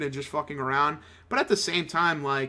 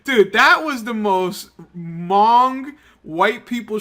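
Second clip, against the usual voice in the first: loud, high, laughing outburst; 6 semitones higher, 8 dB louder, slower than usual. Real, not acted. Host reacting to leaked tapes, laughing hard. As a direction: crack up while repeating yourself.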